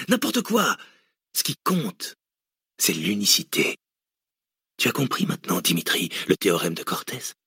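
animated lecture with sudden leaps in pitch; a touch of manic professor, stretching key words; lightly voiced cynical villain. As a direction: gloatingly explain a mad theory. Villain lectures his captive.

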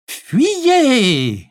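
high grating ghostly wail; voice from beyond the grave. Acted. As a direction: grate it out like a ghost. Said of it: "grinça Chantal d'une voix d'outre-tombe".

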